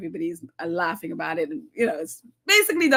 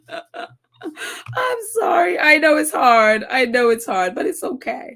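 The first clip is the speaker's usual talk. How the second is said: drawn-out, louder hammed-up sympathy; mock consoling; 3 semitones higher, 4 dB louder than usual. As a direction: pretend to comfort her, overdone.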